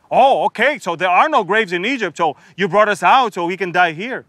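mock-sarcastic whine. Israelites sneering at Moses about graves, sarcastic. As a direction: roll your eyes as you say it. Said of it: "it's sort of like sarcasm".

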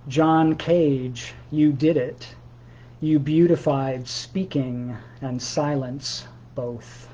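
slow, measured poem recital; poetry reading. Acted. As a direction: read it like a poem, each word weighed. Reads his own poem aloud.

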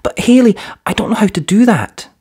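put-on a small boy admitting he can't; unsure young boy. A narrator's reading. Khaled tells Hallie he doesn't know how, high boy voice. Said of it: "Khaled said".

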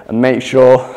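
hiccuping mid-sentence; hiccups. Real, not acted. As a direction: talk through the hiccups. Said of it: "excuse me, hiccups".

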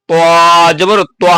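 ত said with a heavy, full sound. Shown as a demonstration. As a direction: make ত thick and heavy. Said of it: "মোটা আওয়াজ".

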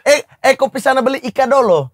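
meniru logat Buton dengan nada lebih tinggi. Retold or imitated. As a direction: tirukan orang Buton yang menyuruh beli. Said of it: "Logat Buton itu". (logat Buton dengan nada tinggi)

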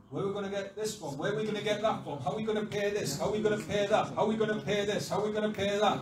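rapid, repetitive worried questions; mock panicky chain of questions; anxious fretting. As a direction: rattle off the worries. Disciples voiced fretting over food.

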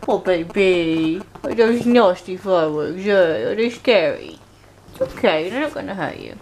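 tender reassurance. Real, not acted. Soothing scared dog quietly.

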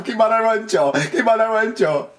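put-on bouncy Jamaican accent copy, half-laughing; imitating Jamaican accent. Player echoing the game's Elephant Man line in a Jamaican accent. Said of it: "I can't do that Jamaican accent".

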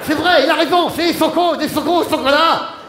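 loud, high agreeing shout; excited shout. Acted. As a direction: cheer him on. Agreeing loudly with Pépito. (cri d'approbation excité)

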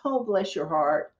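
mean every word of sympathy; sincere sympathy. Retold or imitated. Realtor soothing a buyer about his life events, softly sincere. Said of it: "I was being very sincere".

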